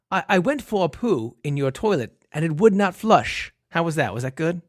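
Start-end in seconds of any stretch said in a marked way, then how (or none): 0.1-3.5 a light, lightly put-on British accent; a quick, half-hearted British accent for the date's confession. Tinder date confessing the clogged toilet to her host, lightly put-on British accent. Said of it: "I'll do this in my Bresh-, best British accent".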